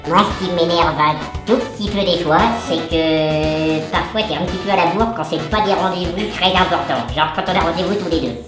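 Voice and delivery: helium voice. Real, not acted. En inspirant l'hélium contenu dans des ballons.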